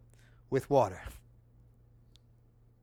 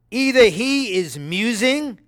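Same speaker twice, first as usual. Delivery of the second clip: slow, sly whispered taunt; mocking whisper; 5 semitones higher, slower than usual. Elijah mocking Baal's prophets, slow sly whisper. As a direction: lean in and whisper the jibe. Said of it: "Elijah mocked them".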